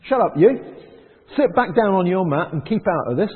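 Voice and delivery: loud, scolding dismissal; mocking the meddling archbishop, loud and dismissive; scornful crowd telling him off. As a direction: bark at him to sit down and shut up. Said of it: "And people said".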